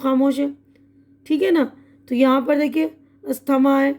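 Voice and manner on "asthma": "अस्थमा" read as as-tha-ma, TH sounded; every letter sounded. Shown as a demonstration. Teacher reading the exercise as written, silent letters sounded. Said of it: "silent कुछ भी नहीं किया है".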